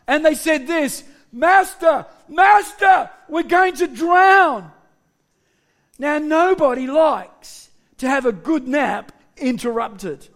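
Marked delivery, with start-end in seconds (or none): 1.3-4.7 raised, urgent cry for help; alarmed disciples. Acted. Disciples wake Jesus as their boat sinks, alarmed. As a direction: call out in mild panic.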